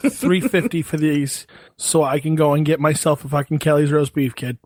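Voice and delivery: mock Boston haggler's accent. Haggling over pills with a dealer, Boston accent. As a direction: make an offer like a Boston local. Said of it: "so good in a Boston accent".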